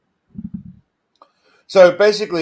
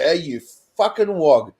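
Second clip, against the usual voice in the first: hostile insult. Shown as a demonstration. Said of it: "it's all about the intent and how you use it".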